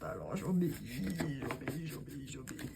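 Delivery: low, fading robot voice, word by word; obey like a tired little robot; voix de robot. Pretend. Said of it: "je suis obligée de faire une voix de robot". (voix de robot qui s'éteint)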